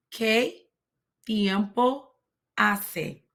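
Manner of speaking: "¿Qué tiempo hace?" said word by word with pauses; Spanish pronunciation. Shown as a demonstration. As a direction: carefully model "¿Qué tiempo hace?" for learners. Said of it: "it's pronounced".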